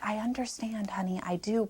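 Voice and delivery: hushed, voiceless words to a grieving man; soft whisper. Retold or imitated. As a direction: whisper it like a kind nurse breaking bad news. Nurse gently refusing to let Shane in.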